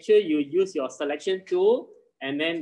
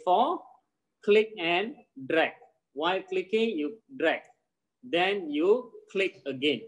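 slow, spaced-out instructions with pauses between steps; walk a struggling student through it slowly; slow step-by-step demonstration. Shown as a demonstration. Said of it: "I'm going to repeat again one more time, slowly".

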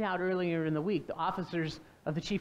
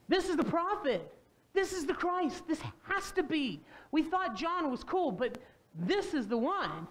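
excited crowd; 5 semitones higher than usual. Retold or imitated. Crowd excited about Jesus.

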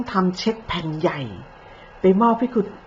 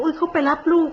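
high, prissy mock of her excuse; a high mocking imitation of an innocent excuse; mocking quote; 8 semitones higher than usual. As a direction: mimic her sugary excuse, pitched way up.

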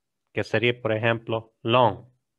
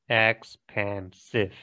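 Expansive said slowly and evenly; slow syllables; 2 semitones lower, much slower than usual. Shown as a demonstration. Teacher repeating Expansive slowly for the class. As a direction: let each syllable of Expansive land. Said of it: "Ok, tres".

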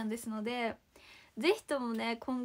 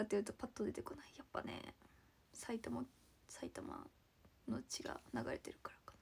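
whispered aside; 9 dB quieter than usual. Real, not acted. Joking to viewers about her Saitama roots, whispered. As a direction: mutter it to yourself, embarrassed.

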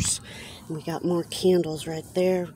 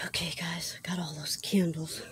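panting after climbing out; breathless, catching air between words; out of breath; 3 dB quieter than usual. Real, not acted. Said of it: "Sorry, I'm out of breath".

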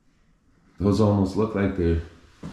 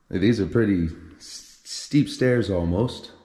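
stumbling over words, dry mouth. Real, not acted. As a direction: talk with a parched, dry mouth. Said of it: "my mouth is very dry".

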